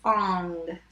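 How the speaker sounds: "Long" with the L split off from the rest; sounded out. Shown as a demonstration. Teacher doing long for spellers, sounded out. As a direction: separate the first sound of "Long". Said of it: "Now let's do long".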